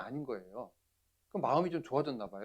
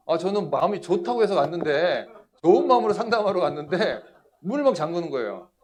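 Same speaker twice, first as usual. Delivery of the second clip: loud, high protest; aggrieved outcry; 6 semitones higher, 11 dB louder than usual. Retold or imitated. Preacher recalls being locked in by the brother, aggrieved outcry. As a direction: blurt it out in loud, high dismay.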